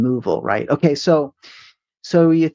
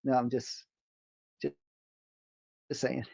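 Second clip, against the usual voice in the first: hammy hurry-up alarm; overacted death scene; 6 dB quieter than usual. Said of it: "with a really dramatic death scene".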